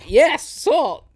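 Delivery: imitated exasperated insistence; exasperated confirmation. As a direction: re-enact confirming it to someone not understanding. Repeats order to uncomprehending worker.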